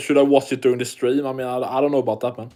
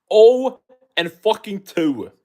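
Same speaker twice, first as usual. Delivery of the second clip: incredulous; 4 semitones higher, slower than usual. Real, not acted. Outraged at weak opponent record.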